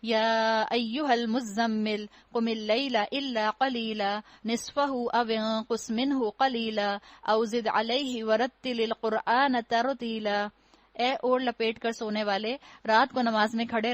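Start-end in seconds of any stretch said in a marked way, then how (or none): 0.0-10.5 slow, measured Arabic recitation with long vowels; unhurried tajweed recitation; Quran recitation. Acted. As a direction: recite the verses slowly, drawing out each long vowel.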